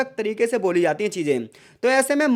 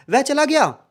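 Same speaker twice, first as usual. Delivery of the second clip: वह चला गया asked higher as a question; question tune; 4 semitones higher, 3 dB louder than usual. Shown as a demonstration. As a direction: ask it, doubting he left. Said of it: "question mark लगाया तो मैं कैसे बोलूँगा".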